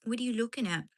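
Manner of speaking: high cooing question. Real, not acted. Woman cooing a question at her dog. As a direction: tease the dog sweetly.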